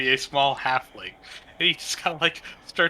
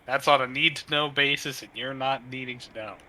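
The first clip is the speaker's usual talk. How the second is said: lightly snarky harpy caw. Acted. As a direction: sneer it out like a harpy. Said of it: "caws on out in a snarky voice".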